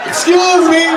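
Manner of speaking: high loud call. Retold or imitated. Stranded guy calling out again, high loud shout. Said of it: "It's like".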